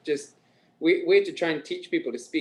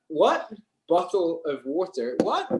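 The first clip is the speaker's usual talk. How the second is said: higher, slow puzzled echo; baffled; 3 semitones higher, slower than usual. Retold or imitated. Local failing to understand a Scottish accent, baffled. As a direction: imitate someone who can't understand. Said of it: "they wouldn't understand me sometimes".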